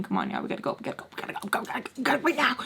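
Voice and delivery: retold panicky rush to get moving; freaking out. Storyteller urging friends to leave the party, freaking out. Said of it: "I'm, like, freaking out".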